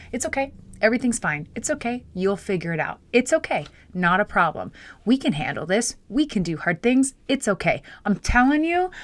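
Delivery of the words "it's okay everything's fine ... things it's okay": coach voice. Retold or imitated. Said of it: "putting in a coach voice".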